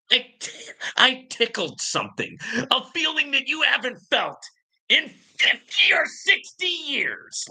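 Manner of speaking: mock seductive voice teasing the commenter; mock tender taunt. Real, not acted. Mock sensual taunt rising.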